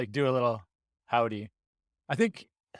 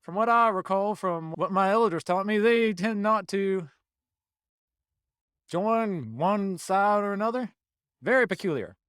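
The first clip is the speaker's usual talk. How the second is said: Southern druid voice; 3 semitones higher than usual. Acted. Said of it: "So he switches back to normal".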